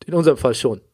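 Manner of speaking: poor audio quality; muffled, lossy stream sound; low quality stream. Real, not acted. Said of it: "sorry für die Tonqualität".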